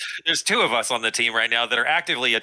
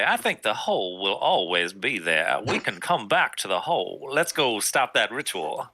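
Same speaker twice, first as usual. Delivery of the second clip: sexy voice. Acted. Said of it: "Is that your sexy voice?".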